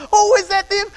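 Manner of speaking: put-on high, eager little-girl voice; imitating his four-year-old jumping up; excited little girl. Father imitating his four-year-old asking if grandparents arrived, high and eager. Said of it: "And she'd go".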